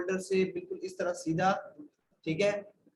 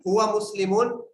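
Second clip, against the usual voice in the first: called out loud for the class to answer; teacher calling out a drill word; drill prompt; 5 dB louder than usual. Shown as a demonstration. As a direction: project the masculine form so students reply. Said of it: "मैं पढ़ूंगा मुजक्कर के लिए".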